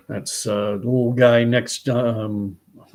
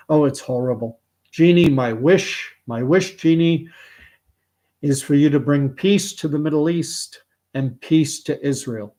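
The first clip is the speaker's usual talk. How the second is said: put-on old Jewish man. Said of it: "Genie unfolds it and he goes".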